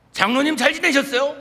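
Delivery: loud, high, cheerful hello; bright loud greeting. Retold or imitated. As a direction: greet him loudly to disarm him. Greeting a hostile elder.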